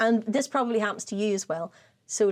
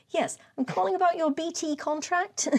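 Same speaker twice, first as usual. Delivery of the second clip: caller; 7 semitones higher than usual. Retold or imitated. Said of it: "the woman said".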